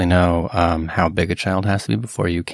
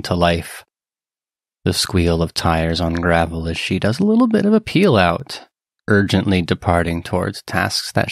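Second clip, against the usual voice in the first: scene setting; 2 semitones lower than usual. Acted. Game master describes the departure to players, measured scene setting. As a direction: narrate the scene deliberately, pausing between phrases.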